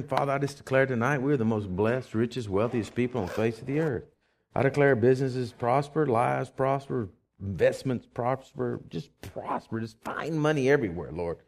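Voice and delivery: steady declaring prayer; prayer declaration. Acted. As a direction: proclaim blessing over them, slowing on prosper. Prayer over offering.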